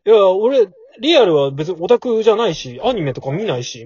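loud defensive nerd voice; a hint of a defensive young otaku; imitating the guy. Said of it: "みたいな".

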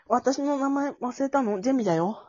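playing Jemi. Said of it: "私、ジェミーね".

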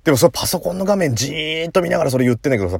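ordinary delivery

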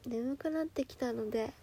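sleepy. Real, not acted. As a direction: let the words sag with sleep. (眠そうに小さく)

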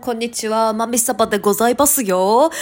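stuffy nose from hay fever; nasal voice. Real, not acted. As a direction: speak through a blocked nose. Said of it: "すっごい鼻声でごめんなさい".

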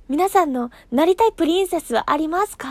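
"なりたい" lifted as a cheerful question to fans; cheerful question to her listeners; bright question to listeners. Shown as a demonstration. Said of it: "すごい乙女なことを聞きましょう".

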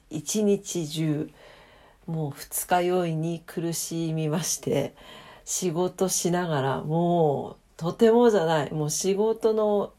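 slow, weary hungover voice. Real, not acted. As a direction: drag through it, still hungover.

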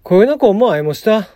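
lightly voiced Kagoshima dialect example; a hint of Kagoshima dialect. Shown as a demonstration. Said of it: "鹿児島弁では、".

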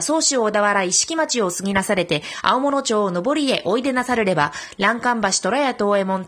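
formal, measured stage recitation; declaiming a classical recital. Shown as a demonstration. Reciting the Uirō-uri drill for radio listeners, steady declamation. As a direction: declaim the old peddler's pitch like a drill piece. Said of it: "では、いきます。".

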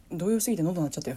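stifled giggles. Real, not acted.

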